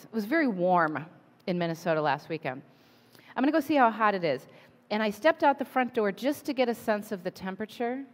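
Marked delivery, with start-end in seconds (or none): 3.4-4.5 "I'm gonna go see how hot it is" rattled off quickly; a quick casual thought to self; fast inner voice; quick retold thought. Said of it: "and then I thought".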